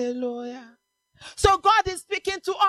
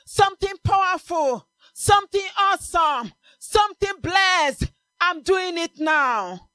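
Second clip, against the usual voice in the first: proclaiming God; 3 semitones higher than usual. Acted. God's voice proclaimed.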